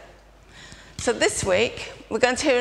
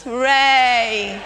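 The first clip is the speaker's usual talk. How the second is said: cheering; 2 semitones higher, 5 dB louder than usual. Shown as a demonstration. Aslan returns, happy cue.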